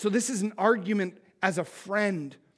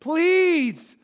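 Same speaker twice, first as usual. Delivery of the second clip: slow, higher begging please; pleading; 8 semitones higher, 6 dB louder, much slower than usual. Shown as a demonstration. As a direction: beg them to listen. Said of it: "urge means to beg and plead".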